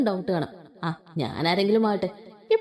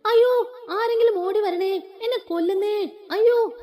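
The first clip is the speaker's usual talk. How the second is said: mock scream for help; 10 semitones higher than usual. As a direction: howl for help, hamming it up. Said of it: "വലിയ വായിൽ അലറി വിളിച്ചത്". (ഉയർന്ന, ഉറക്കെ സഹായത്തിനായുള്ള അഭിനയ നിലവിളി)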